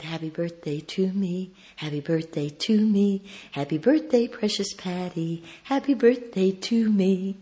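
gentle, measured birthday chant; tender birthday routine. Retold or imitated. Speaker on the phone to her ailing friend, tender chant. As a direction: softly coax a friend's memory.

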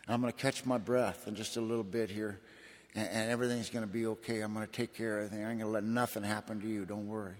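retold soothing of a child, quick and understated; calming reassurance. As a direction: gently talk a frightened little girl down, lightly acted. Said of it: "I got her all calmed down".

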